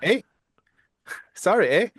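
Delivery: lightly put-on Canadian "eh"; mock Canadian accent. Co-host teases about a Canadian role, mock Canadian accent. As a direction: toss in a joking Canadian twang. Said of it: "That's my Canadian twist".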